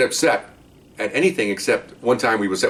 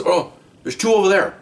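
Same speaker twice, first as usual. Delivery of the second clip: much higher breezy mock agreement; eager suspect; 9 semitones higher than usual. Suspect cheerfully agreeing to find women, higher breezy. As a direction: toss it off like a happy hustler.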